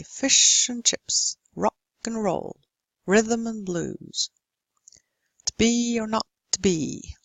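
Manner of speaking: "fish and chips, rock and roll" with "and" cut to 'n; swallowed weak forms. Shown as a demonstration. Teacher demonstrating weak forms, "and" and "to" almost swallowed. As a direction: swallow "and" to 'n and "to" to t' in "to be or not to be". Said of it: "You almost swallow it".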